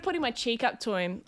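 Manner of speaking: slightly fainter, turned away from the microphone; off mic. Real, not acted. Comedian demonstrates offering her cheek, drifting off mic. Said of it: "Oh, sorry, I went away from it".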